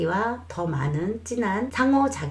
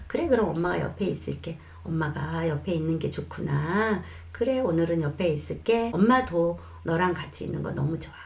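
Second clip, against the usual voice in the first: gentle mom; 2 semitones lower than usual. Shown as a demonstration. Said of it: "뭐 이렇게 얘기를 하세요".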